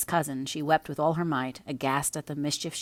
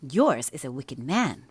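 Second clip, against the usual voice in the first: retort; 4 dB louder, slower than usual. Acted. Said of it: "retorted Catherine".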